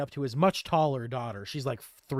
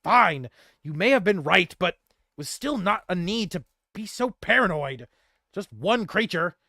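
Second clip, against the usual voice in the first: grudging; 4 semitones higher, 4 dB louder than usual. Acted.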